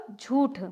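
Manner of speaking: झूठ as jhooth, no n sound; correct oral pronunciation. Shown as a demonstration. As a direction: say झूठ with an un-nasalised oo. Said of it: "तो न का नहीं आएगा".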